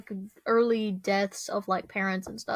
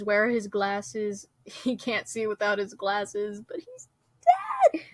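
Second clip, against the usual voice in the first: tearful movie line; crying quote. Retold or imitated. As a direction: retell the scene breaking into a sob. Movie girl's line at funeral.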